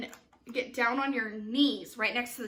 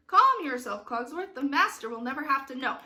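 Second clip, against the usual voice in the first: acted stage reply; 6 dB louder than usual. Shown as a demonstration. Director voices the reply to Cogsworth, emphatic. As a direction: cut in on the fretting, then hurry on.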